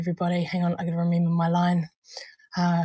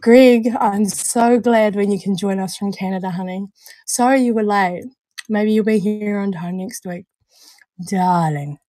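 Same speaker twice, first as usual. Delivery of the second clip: louder, teasing breathy sweet-talk; mock breathy diva; 7 dB louder than usual. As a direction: sweet-talk the late viewer, hammed up. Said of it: "The breathy voice with the darling".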